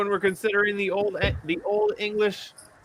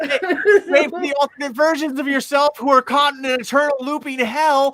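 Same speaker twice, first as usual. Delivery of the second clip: dramatic; 5 semitones higher than usual. Acted. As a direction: build it like a horror trailer. Dramatic mock-ominous line.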